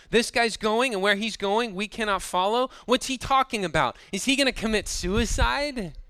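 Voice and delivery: a touch of acted disbelief; baffled questioning. Acting out the Jews' baffled reaction.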